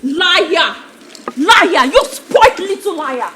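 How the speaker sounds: accusing tirade. Acted. Stepmother accuses boy furiously.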